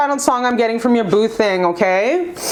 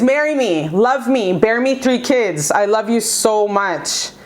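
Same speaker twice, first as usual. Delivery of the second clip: tender proposal; slower than usual. Acted. Tarot reader repeating the ex's plea to her viewer, slow and tender. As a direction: let the promise land gently.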